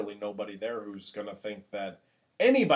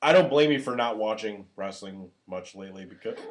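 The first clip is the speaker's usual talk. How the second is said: words broken by hiccups. Real, not acted. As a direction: talk through the hiccups. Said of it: "I've got the hiccups".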